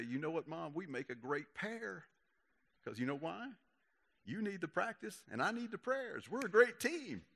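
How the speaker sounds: high, playful pitch building to a punchline; cheeky comeback. Retold or imitated. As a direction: tease mom with rising mock enthusiasm. Retelling cheeky banter with mom.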